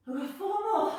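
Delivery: loud upbeat count; rally the class loudly; coach call. Real, not acted. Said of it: "coach counting reps".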